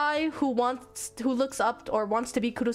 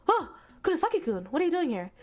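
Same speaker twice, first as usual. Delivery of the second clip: put-on startled girl; 8 semitones higher, faster than usual. Acts girl startled in the library.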